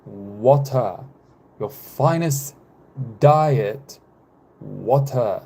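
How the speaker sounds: badly faked French accent, word by word; halting mock French accent with long gaps; attempted French accent. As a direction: try out a French accent, slowly. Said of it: "I was trying to speak French".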